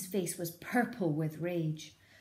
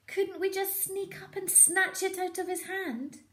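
put-on much higher child voice; small fox child; 13 semitones higher than usual. Small fox to his father, high child voice. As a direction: plead like a little cub. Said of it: "said one of the small foxes".

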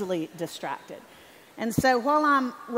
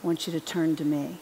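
tender voice of God; 2 semitones lower, 6 dB louder than usual. Retold or imitated. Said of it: "I sensed God through his spirit say".

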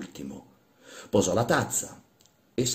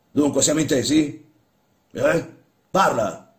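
high, loud, exasperated order; impatient shout; 7 semitones higher, 7 dB louder than usual. Acted. Old master prodding the stunned workman, impatient shout. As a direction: shout to jolt him awake.

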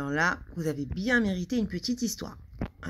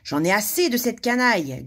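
yelp; 4 semitones higher, 6 dB louder than usual. Acted. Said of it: "glapit Monsieur Malpoli".

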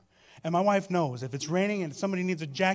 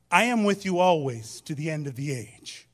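louder, each word of "I am with you always" given weight; emphatic proclamation; 6 dB louder than usual. Real, not acted. Preacher proclaims Jesus' promise to the congregation, louder and emphatic. Reads scripture, then repeats it.

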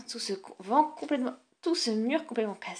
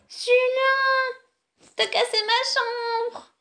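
much higher, shrieking accusation; furious shout; 10 semitones higher, much slower than usual. Acted. Sister shrieking at Julien who broke her room. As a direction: scream at your brother, outraged.

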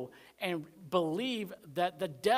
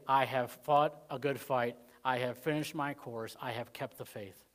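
slow solemn recital; 3 semitones lower, slower than usual. Shown as a demonstration. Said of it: "That they could say".

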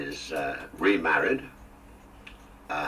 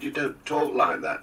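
high, louder mock Scottish accent; imitated Scottish accent; 9 semitones higher, 5 dB louder than usual. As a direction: protest in a put-on Scottish lilt. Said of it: "talking like this".

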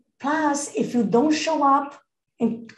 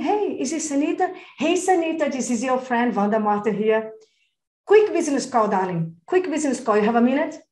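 friendly business call. Shown as a demonstration. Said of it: "you have a call as a businesswoman".

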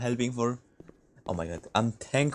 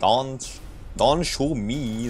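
mock whiny nerd, raised a touch; 3 semitones higher, much slower than usual. Gamer mocking a nerd who got shot, lightly voiced nerd whine. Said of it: "just me trying to sound funny, like a nerd".

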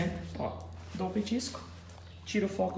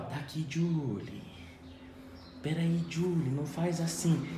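triggering command; slower than usual. Shown as a demonstration. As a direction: drag the dog's name out slowly. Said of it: "Esse é o gatilho".

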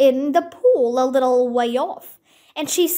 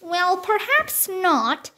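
calm the upset creature gently; soothing tone; 4 semitones higher, slower than usual. Acted. Alice soothes the offended mouse, slow and gentle. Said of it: "said Alice in a soothing tone".

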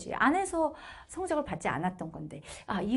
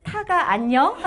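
louder, hesitant question through laughter; mock a nervous second try; unsure guess; 7 semitones higher, 12 dB louder, much slower than usual. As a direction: deskmate nervously reorders the words, laughing. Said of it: "갑자기 눈치를 보더니".

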